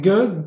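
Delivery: ge as a hard g, like gamma; hard g sound. Shown as a demonstration. Teacher comparing gamma and Hebrew gimel, hard g sound. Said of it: "le son de départ".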